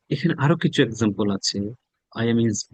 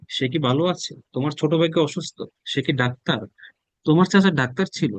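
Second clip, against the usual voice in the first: a slightly raised, lively questioning voice, one query after another; curious questions; 4 semitones higher than usual. Pretend. Teacher playing a curious friend, asking quick questions. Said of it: "অনেক প্রশ্ন করেন".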